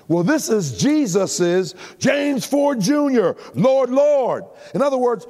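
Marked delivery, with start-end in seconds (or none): 2.0-4.4 high, ringing call, every name hit hard; "Lord, Lord" punched high and loud after the full name; emphatic calling. Acted. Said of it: "for emphasis".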